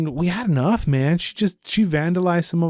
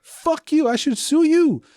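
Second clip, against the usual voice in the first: mock outrage; 13 semitones higher than usual. Angry retelling at neighbor.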